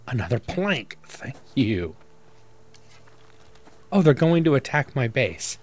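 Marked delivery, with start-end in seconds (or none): 0.1-1.9 French chef. Pretend. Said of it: "the French chef again".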